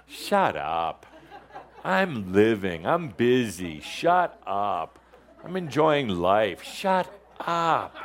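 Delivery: playful, emphatic dismissal; mock telling-off. Speaker scolds the mind like a bad spouse, mock exasperated.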